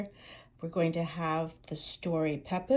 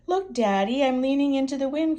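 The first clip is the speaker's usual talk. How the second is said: high, loud and fast; excited cry; 6 semitones higher, 7 dB louder than usual. Acted. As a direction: cry out with delight. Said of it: "cries Peppa".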